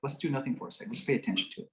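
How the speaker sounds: soft, quiet, reassuring; calm her down gently; calm soothing. Retold or imitated. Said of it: "So I just said".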